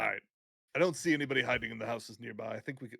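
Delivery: quick, gruff voice put on in passing. Player reports no one hiding in the houses, gruff voice. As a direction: slip into a lightly gruff voice. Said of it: "why am I doing the gruff voice".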